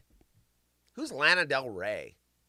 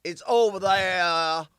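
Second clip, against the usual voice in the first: slow, louder mock Southern drawl; slow Southern man; 3 semitones higher, 8 dB louder than usual. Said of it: "they sound kinda like, slow".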